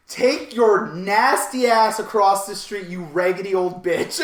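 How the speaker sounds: mock angry guard. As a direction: belt out the insult as the guard. Guard's insult, acted out.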